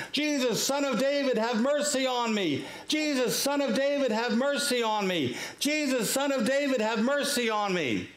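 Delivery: high-pitched, insistent imitation of a shout; repeated mock yelling. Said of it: "he does it over and over and over again".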